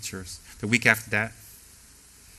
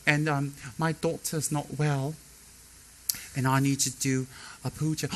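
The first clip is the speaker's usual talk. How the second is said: haughty sponsor; 4 dB quieter than usual. Retold or imitated. Nightmare sponsor demanding.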